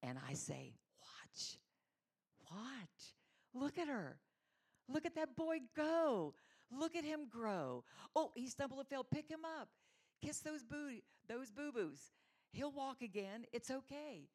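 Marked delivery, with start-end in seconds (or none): 1.0-1.6 whispered watch. Acted. God speaking tenderly to speaker. 2.5-14.3 put-on much higher, louder, delighted call to watch the boy; God as a thrilled parent cheering a child's first steps; proud excited parent.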